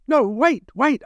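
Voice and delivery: urgent plea. Acted. Captive begging captors for another chance, urgent. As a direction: blurt it out to stop them.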